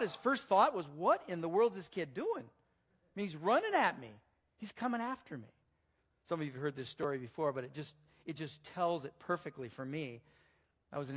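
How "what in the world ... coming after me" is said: mildly incredulous, raised and louder; baffled Goliath. Acted. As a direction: voice a giant's disbelief, lightly acted. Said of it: "Can you imagine what Goliath thought?".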